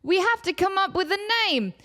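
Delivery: meek intern. Retold or imitated. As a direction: patiently insist. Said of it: "the intern's like".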